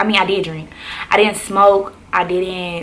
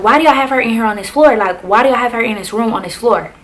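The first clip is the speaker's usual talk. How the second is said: retold yelling; 4 semitones higher, 4 dB louder than usual. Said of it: "she was yelling at the C Os".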